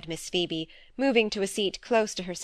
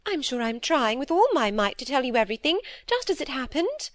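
higher, fretful little-sister voice; timid younger sister; 5 semitones higher than usual. Acted. Phoebe fearfully confessing to her sister, higher anxious pleading.

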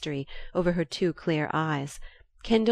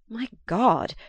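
a touch of anger, breaking out; angry outburst; 5 semitones higher, slower than usual. A narrator's reading. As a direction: blurt it out, upset. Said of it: "he broke out angrily".

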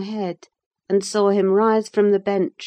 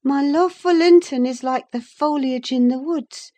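put-on higher young woman's voice, earnest and confiding; Catherine's voice; 8 semitones higher, 5 dB louder than usual. Catherine confessing her love to Nelly, earnest. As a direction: let the secret spill out, half to herself.

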